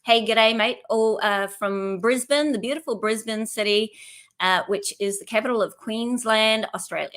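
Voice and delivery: lightly put-on Australian accent; a hint of amateur Australian accent; terrible Australian accent. Shown as a demonstration. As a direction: attempt a friendly Aussie greeting, not quite convincing. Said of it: "That was a terrible Australian accent".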